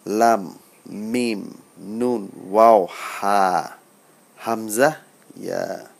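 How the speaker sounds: slow "লাম, মিম, নুন", vowels stretched; Arabic letter pronunciation. Shown as a demonstration. Teacher finishing the Arabic alphabet, careful recitation of "লাম, মিম, নুন". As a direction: recite each letter singly through to "ইয়া". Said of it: "আরবি হরফের উচ্চারণগুলো করি".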